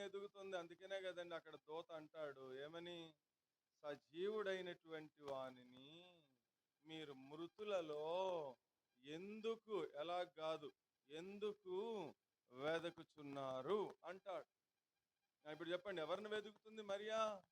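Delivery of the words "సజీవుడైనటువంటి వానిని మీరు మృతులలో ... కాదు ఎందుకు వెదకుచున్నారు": slow scripture quote. Acted. Preacher quotes the angel's words.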